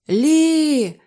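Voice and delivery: high, loud cry of warning; alarmed shout. A narrator's reading. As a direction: shout her name in alarm. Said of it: "крикнув містер Ейб".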